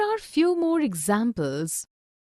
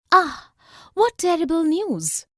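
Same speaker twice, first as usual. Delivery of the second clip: exclamation of sadness; 4 semitones higher, 3 dB louder than usual. Shown as a demonstration. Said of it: "an exclamation of sadness".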